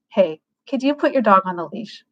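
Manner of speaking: plain, straightforward request; matter-of-fact friendly ask. Shown as a demonstration. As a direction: ask directly, open and without judgment. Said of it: "is a really straightforward tone".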